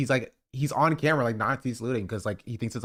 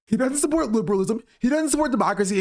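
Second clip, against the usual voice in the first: mocking quote; 5 semitones higher, faster than usual. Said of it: "it's so funny to be like".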